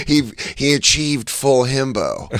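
a lightly voiced dopey himbo; slow, airy himbo voice; wrong himbo voice. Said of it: "I mixed up my himbo voices".

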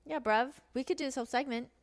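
half-hearted mock-British; terrible British accent. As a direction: attempt a London accent and lose it. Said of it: "That was terrible. I already lost it".

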